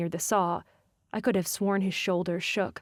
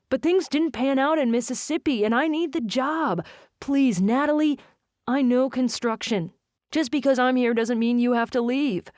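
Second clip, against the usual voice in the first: pleading; 4 semitones higher, 4 dB louder than usual. Acted. Jensen begs for the job.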